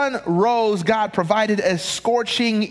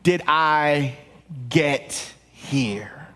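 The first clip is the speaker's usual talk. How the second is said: wondering self-question. Retold or imitated. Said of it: "asked the question".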